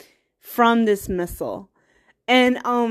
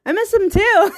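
mock sob; 10 semitones higher, 4 dB louder than usual. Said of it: "And I was like".

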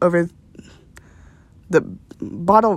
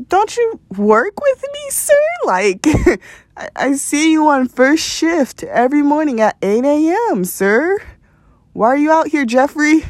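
imitating Uber driver; 7 semitones higher than usual. Voicing Uber driver confronting coworker.

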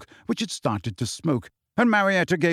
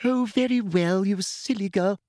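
higher, sharp snap; snapped; 7 semitones higher than usual. A narrator's reading. Umbridge losing patience with Marietta, snapping. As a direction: cut her off sweetly but sharply. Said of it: "snapped Umbridge".

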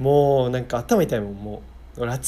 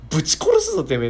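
mock threat; 3 semitones higher, 4 dB louder than usual. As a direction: spit out a fake threat. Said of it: "ああ、言葉が悪い".

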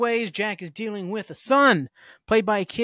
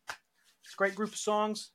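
slower, hushed, savoring each word; 1 slow soft murmur; 4 semitones higher, 7 dB quieter, slower than usual. Shown as a demonstration. Repeating the praise to himself, softly and slowly. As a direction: softly relish it, higher and slower.

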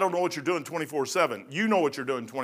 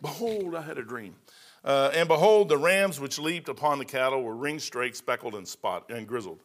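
scripture reading; 3 semitones lower than usual. Acted. Reads scripture.

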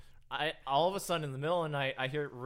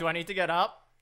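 louder, higher reluctant holler; imitated calling out; 5 semitones higher, 8 dB louder than usual. Gaming brother calling to fallen mom, reluctant holler. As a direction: call it out without getting up.

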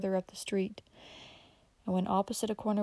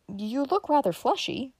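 higher, slower, gently encouraging; 6 semitones higher, slower than usual. Acted. Dick encouraging Uncle Bobby about his weight, kindly. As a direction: cheer the old man up. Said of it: "he said encouragingly".

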